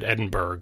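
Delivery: "Edinburgh" ending in a hard "burg"; mistaken phonetic pronunciation. Retold or imitated. Podcaster quoting co-host's mistake, phonetic pronunciation. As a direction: read "Edinburgh" as spelt, with the g sounded. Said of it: "which is definitely wrong".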